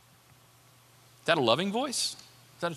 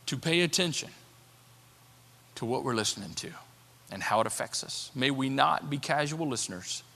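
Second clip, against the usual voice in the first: measured congregational prayer with long pauses; earnest closing prayer, phrase by phrase; spoken prayer. Real, not acted.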